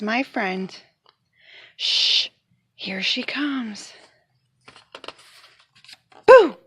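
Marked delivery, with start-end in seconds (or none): 1.8-3.9 hushed, sneaky whisper; slow secret whisper while hiding. Acted. Hiding to surprise friend. 6.3-6.6 a big startling boo; loud boo. Acted. Jumping out to surprise.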